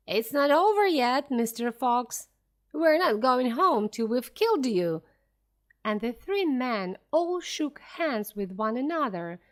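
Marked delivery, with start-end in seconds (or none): 0.1-5.0 shouting. Acted. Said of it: "shouting down the hole".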